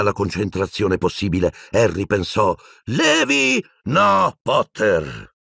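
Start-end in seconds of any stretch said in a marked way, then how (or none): 2.9-3.6 very high, intense cry; forceful incantation. A narrator's reading. Harry concentrating on a spell, crying it out. 3.8-5.3 high cry, dropping on the second word; shouted refusal. A narrator's reading. Piton blocking Harry's spell, shouting. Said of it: "gridò Piton".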